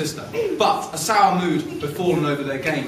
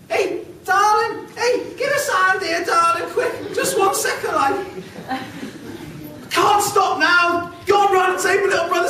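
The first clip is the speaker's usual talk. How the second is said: very high, loud, cheeky rat; shrill-pitched street rat calling out; 14 semitones higher, 3 dB louder than usual. Acted. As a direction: squeal for help, darling. Rat calls for help.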